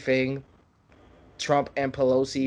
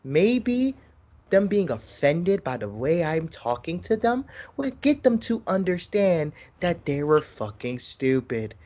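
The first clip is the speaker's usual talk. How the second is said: kindergarten teacher voice. Pretend. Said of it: "I'm talking like a fucking kindergarten teacher".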